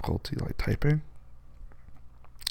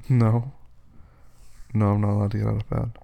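playful loud protest; 5 dB louder than usual. Pretend. Playfully forbidding partner to leave bed.

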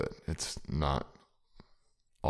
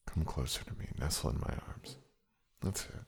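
soft whisper; 6 dB quieter than usual. Acted. Intimate soft invitation.

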